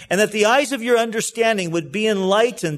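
earnest, steady Bible reading with a preacher's lift; scripture reading. Acted. Pastor reading Paul's prayer to the congregation, earnest scripture reading. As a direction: read Paul's prayer out to the church, unhurried.

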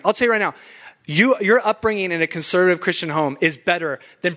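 worked-up, insistent preaching; fired up. Real, not acted. Preacher defending his conservative Christian home, fired up. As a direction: get carried away defending your upbringing. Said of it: "I'm getting too fired up".

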